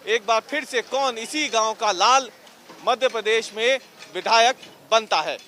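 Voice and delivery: closing piece to camera, gathering force; TV report sign-off. Acted.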